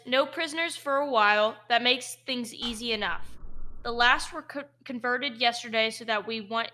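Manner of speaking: lightly voiced orc guard. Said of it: "An orcish voice says".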